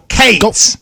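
"Cates" as one long syllable. Shown as a demonstration. Host correcting co-host, "Cates" in one syllable. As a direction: say "Cates" in a single drawn-out beat. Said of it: "It's like one syllable".

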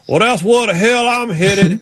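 high, slow mimicked drawl; imitated driver. Driver heading off for the cooler, mimicked high drawl. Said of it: "He goes".

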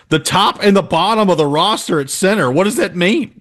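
high-pitched puzzled questioning; baffled reaction. Retold or imitated. Host recalling his reaction to odd phrasing, baffled. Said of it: "And I was like".

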